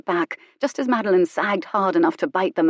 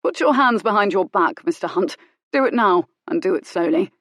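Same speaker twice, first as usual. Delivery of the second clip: cold command; 3 dB louder than usual. Acted. Colin commands Hunt.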